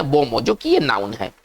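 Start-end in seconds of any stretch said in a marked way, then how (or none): 0.0-0.4 बोमो as "bo-mo", no hard n; बोमो as two open syllables, "bo-mo"; correct French pronunciation. Shown as a demonstration. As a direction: say बोमो with the n dropped. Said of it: "इसका सही उच्चारण है".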